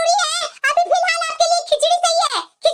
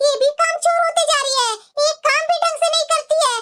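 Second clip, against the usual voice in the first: scolding mother-in-law; 2 semitones higher than usual. Acted. Mother-in-law complaining to her daughters-in-law about late food, nagging. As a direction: grumble like a bossy saas.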